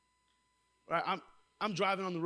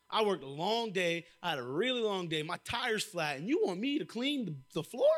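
mock complaining; 3 semitones higher than usual. Tired worker complains to parents about chores, mock indignation. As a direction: protest the chore in disbelief. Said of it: "and I complain".

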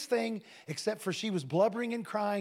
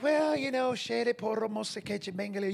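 speaking in tongues. Retold or imitated. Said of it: "pray in the Holy Ghost".

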